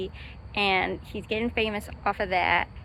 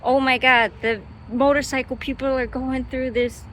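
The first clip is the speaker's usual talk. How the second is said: put-on awed child; 4 semitones higher, 5 dB louder than usual.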